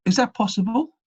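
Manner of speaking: high, loud shout from the audience; a doubtful question shouted from the back; called out question. Retold or imitated. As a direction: call it out across the room in disbelief. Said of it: "someone yelled out".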